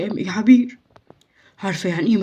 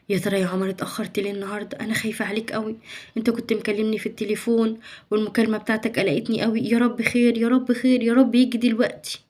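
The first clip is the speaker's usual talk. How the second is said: worried murmur; 6 dB quieter than usual. Acted. Mother worrying alone.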